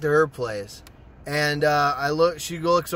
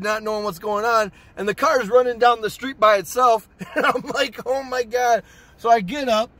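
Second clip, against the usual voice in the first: excited laughing telling; 6 semitones higher than usual. Real, not acted. Laughing retelling car mishap.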